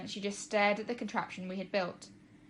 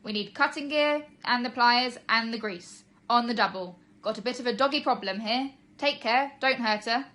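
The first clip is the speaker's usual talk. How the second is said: louder, higher urgent commands; loud orders; 3 semitones higher, 6 dB louder than usual. Acted. Fire chief keeps calling orders to his crew, loud. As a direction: keep barking orders at the crew. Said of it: "he bellowed".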